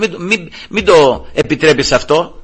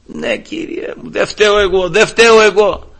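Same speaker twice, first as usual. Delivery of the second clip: protesting innocence; 6 semitones higher than usual. Retold or imitated. Adam excusing himself to God, mock protest. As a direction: plead not to be blamed, hammed-up. Acted Adam dodging God's blame.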